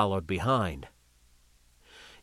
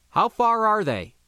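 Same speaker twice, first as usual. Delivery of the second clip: urgent demand; 9 semitones higher, 4 dB louder than usual. Acted. DeSantos pressing for answers.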